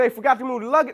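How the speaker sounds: mock disbelief, pitch climbing on "two hours"; incredulous retort. Retelling his reaction to the forgotten luggage, incredulous. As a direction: repeat the excuse in disbelief, drawing out the end.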